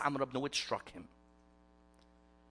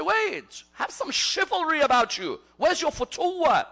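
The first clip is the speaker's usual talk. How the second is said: high, loud challenge across a battlefield; calling out a challenge; 11 semitones higher, 7 dB louder than usual. Retold or imitated. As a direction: call him out forcefully, pitched well up. Acted battlefield challenge to an opponent.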